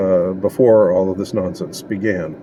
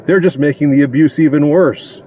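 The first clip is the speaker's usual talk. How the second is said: higher, louder sarcastic echo; hammed-up sarcastic echo; exaggerated mock repeat; 5 semitones higher, 4 dB louder than usual. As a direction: push the mockery up a notch. Repeats the mocking line harder.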